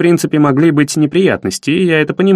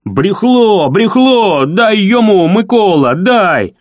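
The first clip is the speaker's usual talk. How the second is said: furious crowd; 4 semitones higher, much slower than usual. Acted. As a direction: egg Микола on to hit him. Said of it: "яростно".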